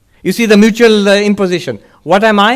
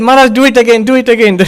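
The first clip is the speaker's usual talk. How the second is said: excited plea; 8 semitones higher, 6 dB louder, faster than usual. Retold or imitated. Monks begging Maharaj to repeat.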